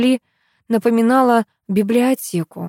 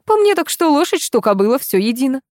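dismissive grandmother; 7 semitones higher than usual. A narrator's reading.

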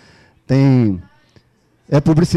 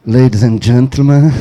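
airport announcer; 3 semitones lower, 5 dB louder than usual. Pretend. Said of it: "que nem a mulher do aeroporto".

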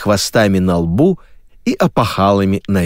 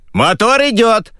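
announcement from above; 13 semitones higher than usual. Acted. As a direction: announce it over the studio speaker. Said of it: "объявили с потолка".

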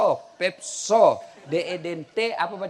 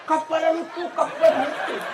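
higher, excited Bugis shouting at the plane; excited kids calling; 6 semitones higher than usual. Retold or imitated. Village kids in Bugis chasing the plane, excited. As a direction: call out to the plane overhead in Bugis. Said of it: "Bahasa Bugis".

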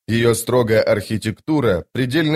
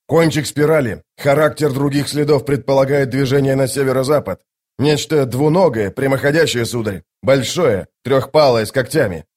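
soldier reporting to commander; 3 semitones higher than usual. Acted. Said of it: "сказал всадник правого крыла".

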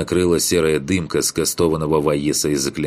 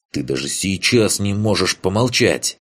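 sharp hushing rebuke; 4 semitones higher than usual. Acted. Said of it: "шикнула на парня Ваеса".

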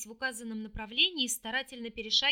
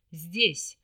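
gloomy; 6 semitones lower, 6 dB louder than usual. A narrator's reading. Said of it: "мрачно отозвался".

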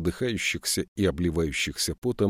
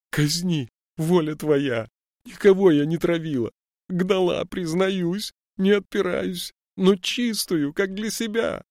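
put-on high, loud old woman begging; pleading wail; 12 semitones higher, 4 dB louder than usual. A narrator's reading. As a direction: throw herself on his mercy. Old woman begs on her knees.

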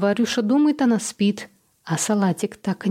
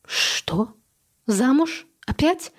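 shocked; 5 semitones higher, much slower than usual. Acted. Mother shocked by wedding news.

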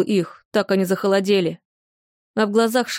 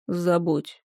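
a touch lower and rougher; lower, rougher demon voice; 3 semitones lower, 5 dB quieter than usual. A narrator's reading. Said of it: "зазвучал немного ниже и грубее".

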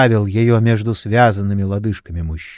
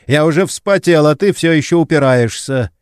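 panting anger; 5 semitones higher, 4 dB louder than usual. A narrator's reading. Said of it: "пыхтя приказывал Лиане".

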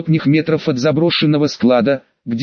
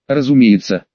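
холодный голос из модулятора; ледяной механический голос; ледяной тон; 3 semitones lower than usual. Acted. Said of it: "ледяным тоном из голосового модулятора". (ледяной тон через модулятор)

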